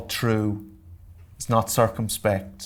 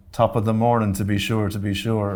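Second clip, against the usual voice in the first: lightly hammed-up stage Irish cliché; mock stage Irish. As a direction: tease the stage-Irish stereotype, half laughing. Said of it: "Everyone thinks we say that".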